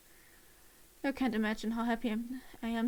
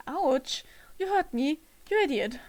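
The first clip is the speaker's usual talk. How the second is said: pained yelp; 4 dB louder, slower than usual. Acted. Ear pulled, complaining loudly.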